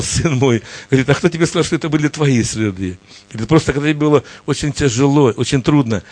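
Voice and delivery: gentle, loving explanation from a father; tender fatherly voice. Acted. God gently explains he carried his son, tender. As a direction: reassure him that you carried him. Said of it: "такой ласковый голос".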